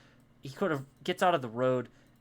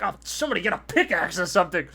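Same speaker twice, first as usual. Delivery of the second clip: guards calling out; 5 semitones higher, 7 dB louder, much faster than usual. Acted. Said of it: "And they're like".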